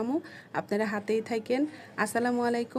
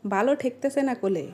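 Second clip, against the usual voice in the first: regional Sirajganj Bengali accent; Sirajganj dialect. Shown as a demonstration. Complaining of not liking it, Sirajganj dialect. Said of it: "এটাকে বলি".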